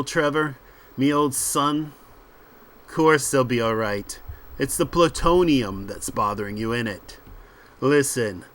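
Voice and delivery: lightly voiced dismissive ringleader; punchy, assured patter in short phrases; cocky British crook. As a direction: brush off your mate's worries. Voices confident Steve.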